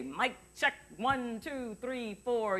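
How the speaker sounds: the stock phrase the sound person hates; mock mic check. Shown as a demonstration. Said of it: "doesn't wanna hear you say".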